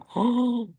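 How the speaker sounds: short startled gasp, pretending horror; mock shocked gasp. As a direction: gasp as if appalled. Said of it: "완전 반쯤 죽여놨다는 거 아닙니까". (놀란 척 헉 하고 숨 들이쉬기)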